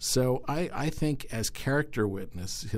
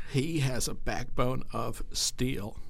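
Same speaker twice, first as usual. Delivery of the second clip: politician impression; 3 semitones higher, slower than usual. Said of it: "Maybe you can do it in his voice".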